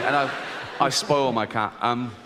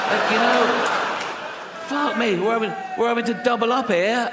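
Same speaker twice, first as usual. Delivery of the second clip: a high, complaining grumble; lightly whiny pedo; 7 semitones higher than usual. Retold or imitated. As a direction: keep the high whine going a little. Pedo character keeps talking.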